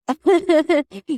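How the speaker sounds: bright burst of laughter; quick amused laugh. Real, not acted. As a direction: laugh it off lightly. Laughs about steps.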